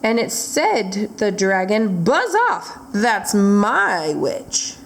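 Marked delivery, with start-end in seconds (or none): 2.0-4.8 lightly voiced monstrous beast, drawn out at the end. Beast warning off the dragon, mock monster voice. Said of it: "a yowl and a growl".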